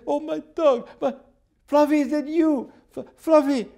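very high, overcome pet owner; astonished cry. Retold or imitated. Lady hearing her dead dog answer, astonished high cry.

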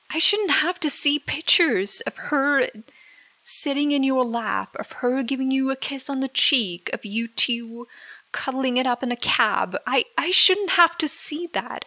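heated protest. Real, not acted. Girlfriend confronting her boyfriend over the photos, heated. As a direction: push back hard, voice rising. Angry protest about the pictures.

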